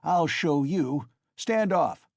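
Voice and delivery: loud, high, slow threatening yell; frantic scream. A narrator's reading. Mikolka threatening the crowd, screaming frantically. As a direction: rage at the crowd. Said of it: "Mikolka screamed frantically".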